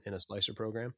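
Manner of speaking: slight whistle through the teeth on the s sounds; whistling through teeth. Real, not acted. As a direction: let air whistle through the teeth as you speak. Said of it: "did you just hear that whistle through my teeth there?".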